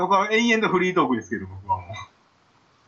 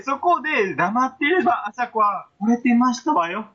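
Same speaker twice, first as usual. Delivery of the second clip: posh lady speech; 4 semitones higher, slower than usual. Pretend. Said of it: "お上品スイッチ".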